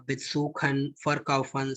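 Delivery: light first syllable, weight on the stem in "besuchen, verkaufen"; unstressed prefix. Shown as a demonstration. Teacher listing non-separable verbs, stem stress on "besuchen" and "verkaufen". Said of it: "wherever prefix is not emphasized".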